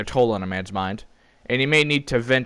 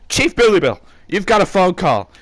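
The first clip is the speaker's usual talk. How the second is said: high, loud call across the office; 8 semitones higher, 7 dB louder than usual. Acted. Coworker calling the chief to the phone, high and loud. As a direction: shout it across the room.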